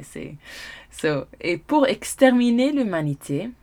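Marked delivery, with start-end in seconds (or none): 1.4-3.5 leaning into a French accent. Shown as a demonstration. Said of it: "put on a French accent and roll with it".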